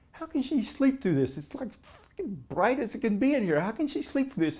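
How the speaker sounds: high, astonished rush of disbelief; reliving the shock that she sleeps through it; incredulous disbelief. Retold or imitated. Retelling awe at the blazing light.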